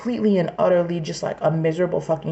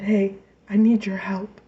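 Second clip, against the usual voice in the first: whispered quote. Retold or imitated. Imagining a sibling asking her for help, whispered. Quoting family calling for help.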